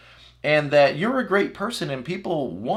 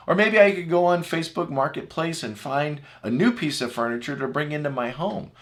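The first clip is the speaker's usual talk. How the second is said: normal talking voice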